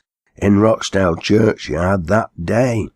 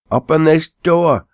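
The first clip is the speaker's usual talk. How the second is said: high, loud plea; shouting; 10 semitones higher, 4 dB louder than usual. A narrator's reading. Ben trapped in hearse calling, high loud shout. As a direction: holler through the door. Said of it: "cried Ben".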